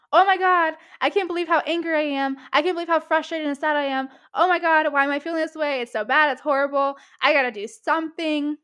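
loud, frantic, spiraling panic; panicked overwhelm. Retold or imitated. Voicing an overwhelmed self, loud frantic panic. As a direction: freak out over your own feelings. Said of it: "Instead of saying".

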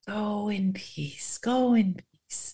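slow and soft, tender farewell; gentle blessing. Retold or imitated. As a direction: send her off in peace. Jesus sending woman off.

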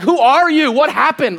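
mock-bewildered outburst; retold bewilderment. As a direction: ask it like a baffled, exasperated dad. Dad retelling his bewilderment at son.

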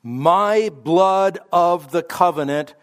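"My" punched at the start, slow; stress on My. Shown as a demonstration. Preacher quoting Jesus to the congregation, stressing "My". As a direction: open hard on "My". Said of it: "Again, strong pronoun".

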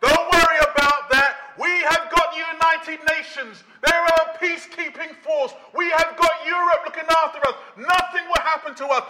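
lightly voiced dismissive skeptic; a hint of a carefree doubter; mock complacent man. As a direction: brush off the danger, a touch smug. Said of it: "the non-Christian man saying".

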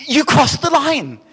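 high, loud, slow mock pharaoh; pharaoh's empty threat. Preacher mocks the pharaoh's empty threat to parents, high and loud. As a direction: drag out the outraged threat in a put-on voice. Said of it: "he goes".

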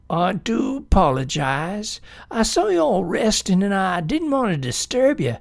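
lightly voiced excited newt; eager, apologetic creature voice; friendly newt.

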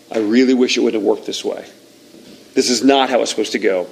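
a touch of sorrowful disappointment; understated regret. Acted. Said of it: "one thing we know is God saying".

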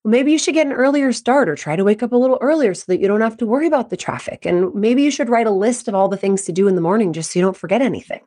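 quick, breezy unsolicited advice; advising partner. Acted. Partner answering a venting spouse with fixes, preachy. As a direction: rattle off helpful-sounding suggestions.

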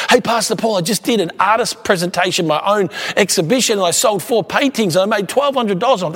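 lightly acted high, eager chatter; imitating loud talker. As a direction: mimic someone proudly rattling off news. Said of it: "talk at one volume loud".

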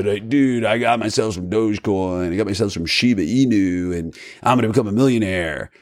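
lightly voiced laid-back stoner bus driver; Simpsons bus driver voice. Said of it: "my Greatest Simpsons bus driver voice".

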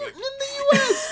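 high, rushed mock whine; high fast squeal. Real, not acted. Mock excited.

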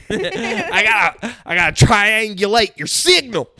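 high, laughing spy voice; a playful hacker voice cracking up. Retold or imitated. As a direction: giggle out the tracker line.

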